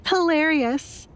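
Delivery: slow, soft laugh at the absurdity; amused sneer; scornful chuckle. A narrator's reading. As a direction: laugh it off bitterly. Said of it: "Alessandra chuckled".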